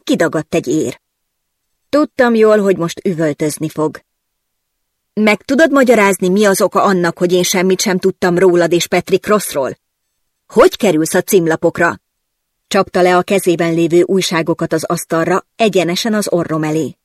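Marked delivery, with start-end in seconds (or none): 5.1-12.0 angry interrogation. Acted. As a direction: demand an explanation. Boss confronts reporter. (számonkérő, dühös hangon)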